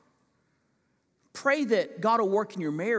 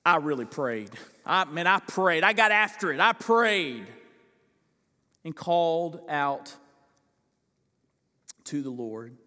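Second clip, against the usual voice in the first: emphatic paraphrase. Retold or imitated. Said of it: "It means something like".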